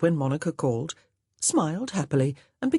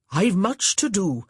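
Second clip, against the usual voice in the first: anxious; 4 semitones higher, 5 dB louder than usual. A narrator's reading. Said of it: "he said anxiously".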